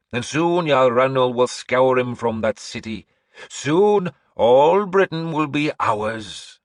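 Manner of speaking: slow, high, loud proclamation; old seeress announcing. Acted. Seeress announcing to the hall, high and slow. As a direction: proclaim like an eerie prophetess. Breda declares.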